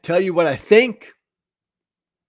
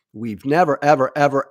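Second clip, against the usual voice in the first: "ever" hit louder each time; emphatic repetition; 4 dB louder, faster than usual. Real, not acted. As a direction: hammer every "ever". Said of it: "I'm gonna say ever a few more times".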